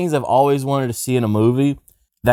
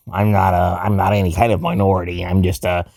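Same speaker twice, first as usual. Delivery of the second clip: slightly lowered, halting white-guy put-on; dorky white voice; 2 semitones lower than usual. Posing as a regular white guy in the club, dorky white voice. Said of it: "you sound like a dorkier version".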